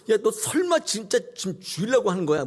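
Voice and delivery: high-pitched, shocked question; startled disbelief. Acted. God seeing Abraham about to kill, shocked disbelief. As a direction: blurt it out in acted shock. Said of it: "하나님이 얼마나 놀라셨는지를".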